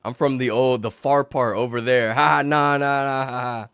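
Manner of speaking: stammering nervous laugh; evasive fumbling. Retold or imitated. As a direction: squirm and laugh it off. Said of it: "He said".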